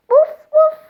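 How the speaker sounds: high, loud whimpering puppy woof; puppy bark. Acted. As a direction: bark with a little whine. Dog barks at lost duck.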